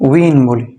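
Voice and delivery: উইন said as "u-win" with a w glide; win for waw. Shown as a demonstration. Teacher showing waw with kasratain as win. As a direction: say উইন starting on a short u, then w, then in.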